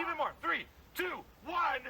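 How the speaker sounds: high, urgent coach call; real high-pitched hype yelling; shouted countdown. Real, not acted. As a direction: count them into a scream. Coach counting down over screams.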